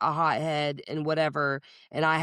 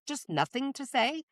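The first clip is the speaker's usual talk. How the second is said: mocking taunt; 7 semitones higher, 4 dB quieter than usual. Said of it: "with the audacity to say".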